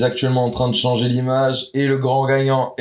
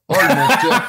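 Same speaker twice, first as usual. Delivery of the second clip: laughing accusation; 6 semitones higher, slower than usual. Real, not acted. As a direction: call him a liar while cracking up. Friend accused of lying, laughing.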